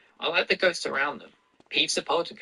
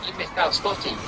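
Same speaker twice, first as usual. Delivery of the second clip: hissed taunt; 8 semitones higher than usual. A narrator's reading. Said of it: "Peeves hissed in her ear".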